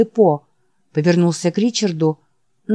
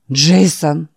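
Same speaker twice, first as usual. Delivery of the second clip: exclaiming; 3 dB louder than usual. Acted. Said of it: "воскликнул старик".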